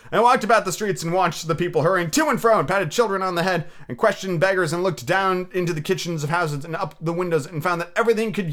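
animated storybook reading, lifted above chat; story narration. Acted. Reader tells of Scrooge's shaky morning shave, animated narration. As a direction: read it out with lively storyteller phrasing.

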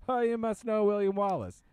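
high, loud, gushing mock assumption; hammed-up eager recognition; mock stereotyping stranger. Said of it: "if you're Scottish, they get".

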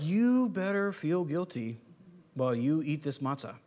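slow, stern guilt-tripping voice; mock guilt trip. Shown as a demonstration. Preacher mocks a somber guilt-laden Jesus, slow and stern. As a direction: lay on the guilt, slowly. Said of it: "Not, not somber".

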